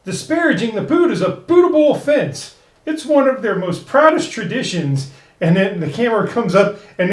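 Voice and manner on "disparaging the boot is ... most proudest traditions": higher, pompous official voice; stuffy official. Retold or imitated. Host quoting Conover the official, pompous and higher. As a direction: read it like a self-important bureaucrat. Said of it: "And Conover says".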